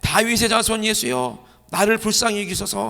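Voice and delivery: high, loud acted plea; crying out. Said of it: "소리를 질러 가로되". (높고 크게 외치며 간청하듯)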